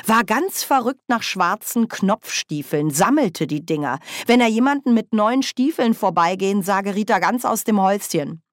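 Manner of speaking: voz más aguda y vivaz de bruja parlanchina; Nanny, animada. Acted. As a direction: recuerda con entusiasmo, tono agudo.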